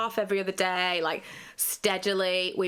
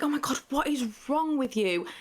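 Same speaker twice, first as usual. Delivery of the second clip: higher-pitched exasperated self-scolding; a raised, incredulous rebuke to herself; 6 semitones higher than usual. Retold or imitated. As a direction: tell yourself off in disbelief. Scolding herself while sobbing.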